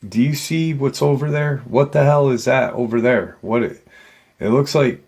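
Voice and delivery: retold yell. Trooper spots movement below and calls to pilot, mild retold yell. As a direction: call out urgently without fully shouting. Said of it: "he yells to the pilot".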